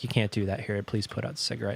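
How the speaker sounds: mock a courteous, low-key staff request; retold polite request. Park employee asks smoker to stop, mildly polite. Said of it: "comes up very nice".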